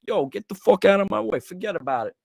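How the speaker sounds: high, hammed-up New York mobster; mock New York gangster, forget about it. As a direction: bark it like a movie wiseguy. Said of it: "We were laughing the whole".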